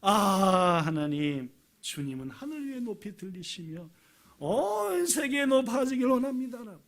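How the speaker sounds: acted prayer of awe, rising at the end; praise. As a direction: start hushed in wonder, lift into praise. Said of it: "이렇게 하나님을 찬양하자". (감탄하며 하나님께 올리는 찬양)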